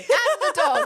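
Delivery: high, loud, indignant add-on; real exasperated comic outburst; emphatic exclamation. Real, not acted. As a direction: blurt it out at full volume. Indignant laughing afterthought.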